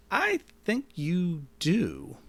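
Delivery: high, slow breathy whisper of suspicion. Acted. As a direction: hush it out, slow and knowing. Owner confronts lying robot.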